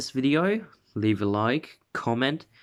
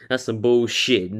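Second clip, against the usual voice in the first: "That's some bullshit" said through a real laugh, a bit louder; laughing repeat; 4 dB louder than usual. Real, not acted. Youtuber cracking up at own joke, laughing. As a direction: laugh as you say it again, amused at your own line.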